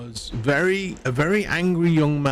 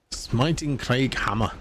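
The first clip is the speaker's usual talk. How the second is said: slow, badly faked Scottish accent; hint of a bad Scottish accent; terrible Scottish accent; slower than usual. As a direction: put on a clumsy Scottish accent. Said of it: "It's a really terrible Scottish accent".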